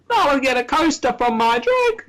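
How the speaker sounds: high-pitched cartoon impression; Joey Wheeler. Co-host mimicking a parody cartoon, high put-on character voice. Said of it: "it does sound like Joey Wheeler".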